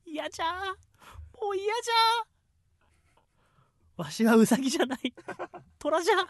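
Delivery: whiny lord voice. Retold or imitated. Quoting Ieyasu's whiny lines.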